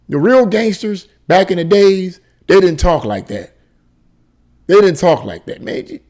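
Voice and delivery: indignant. Real, not acted. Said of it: "indignant correction".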